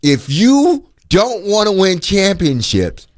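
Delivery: slow, deliberate recitation; slow quote. Retold or imitated. Host repeating the athletic director's line to test it, slow quote. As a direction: say it back slowly, phrase by phrase. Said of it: "say that back to yourself".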